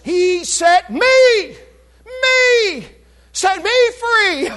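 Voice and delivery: high, slow, ecstatic cry; joyful exclamation. Real, not acted. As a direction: cry out with joy. Preacher exults over verse.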